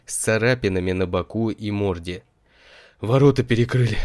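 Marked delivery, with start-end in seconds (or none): 3.0-4.0 out of breath, loud blurt; urgent panting report. A narrator's reading. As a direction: gasp it out breathless. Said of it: "запыхавшись, выпалил он".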